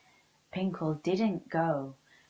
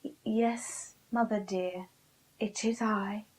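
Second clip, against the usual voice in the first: humble voice; 3 semitones higher than usual. Acted. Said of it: "in a very humble voice".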